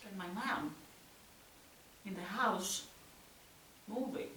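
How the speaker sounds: very soft, broken by long pauses; tense, fading near-whisper; hushed aftermath. Acted. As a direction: let it die away into silence, fragment by fragment. Aftermath, mother softly crying, silence.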